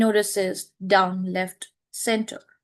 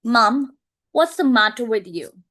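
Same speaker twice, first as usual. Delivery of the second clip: alarmed cry; 6 dB louder than usual. Acted. Staring at her.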